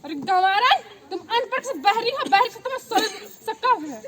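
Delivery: mild scolding outburst; angry scolding. Acted. Mother-in-law scolding her illiterate daughter-in-law, exasperated. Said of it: "क्यों इतना चिल्ला रही हो".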